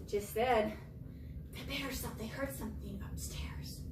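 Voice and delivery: hushed whisper; storyteller's hushed whisper; suspense whisper. Acted.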